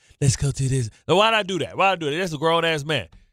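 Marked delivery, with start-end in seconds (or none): 0.2-0.9 soft, gentle put-on voice. Imitating how a basketball player thinks: imitating Cat in a soft voice. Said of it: "change my voice all soft".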